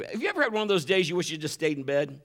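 normal talking voice

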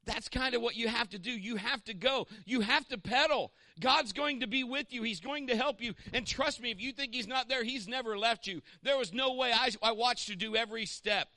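high, loud, building sermon; impassioned preaching. Acted. Pastor urges the church to keep pedaling, fervent and loud. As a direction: preach it with rising fire.

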